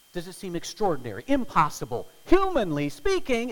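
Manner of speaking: emphatic build. Real, not acted. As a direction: press the point hard.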